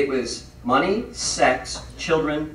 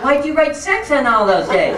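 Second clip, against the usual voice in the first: higher, louder aghast wife voice; shocked wife; 8 semitones higher, 4 dB louder than usual. Retold or imitated. Wife discovering the calendar, shocked. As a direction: react to the calendar in disbelief.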